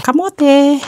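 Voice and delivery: bright excited cry; excited exclaim. Real, not acted. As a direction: call it out with delight. Excited naming of sweet potato.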